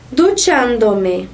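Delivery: duchándome drawn out, stressed on chán. Shown as a demonstration. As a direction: slowly lean on the third-last syllable of duchándome, CHÁN. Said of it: "essa aqui que era mais forte".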